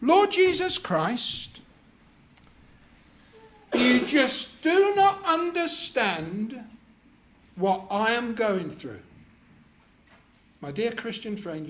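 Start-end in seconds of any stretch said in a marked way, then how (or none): 0.0-9.0 complaining prayer. Acted. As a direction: pray it with a whine of self-pity. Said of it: "Here we go".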